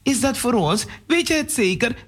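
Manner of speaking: can't believe the gift; surprised. Acted. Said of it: "Verbaasd kijkt Irene hem aan".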